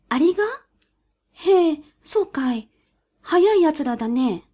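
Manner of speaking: high, sly weasel voice. A narrator's reading.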